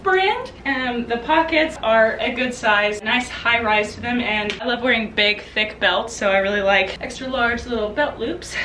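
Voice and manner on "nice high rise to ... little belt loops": slightly winded, breathing between words. Real, not acted. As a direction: talk while still catching your breath. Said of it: "totally out of breath".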